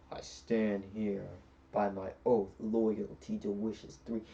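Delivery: slow, imposing genie proclamation; grand genie entrance. Retold or imitated. Genie announcing himself as he comes out of the lamp, grandly. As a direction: intone it slowly as a mock-grand genie.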